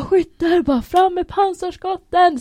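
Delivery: high, loud drawn-out command; acted full-voiced military shout; screamed order. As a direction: yell like a squad leader over the range. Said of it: "sen så skriker han bara".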